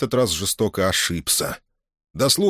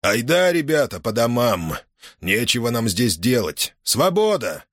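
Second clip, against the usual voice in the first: commanding call; 3 semitones higher than usual. Acted. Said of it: "скомандовал понятым".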